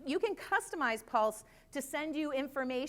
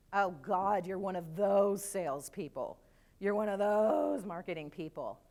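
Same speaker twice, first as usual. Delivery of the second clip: disdainful prospect; 4 semitones lower than usual. Acted. Voicing the judging prospect's reaction.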